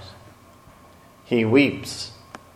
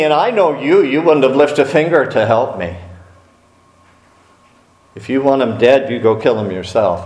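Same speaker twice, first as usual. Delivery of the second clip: heated retort; 4 semitones higher than usual. Acted. Soldier angrily refuses general.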